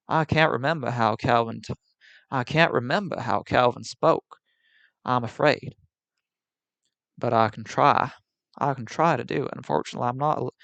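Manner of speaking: put-on Southern accent. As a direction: stretch the vowels like a genteel Southern host. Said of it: "a sort of non-neurotic southern accent".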